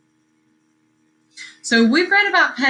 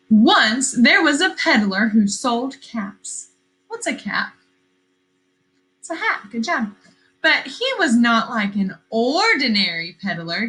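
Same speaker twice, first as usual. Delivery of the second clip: storybook reading. A narrator's reading. Teacher reading a picture book to her class, lively storytelling. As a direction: read it like story time on the rug.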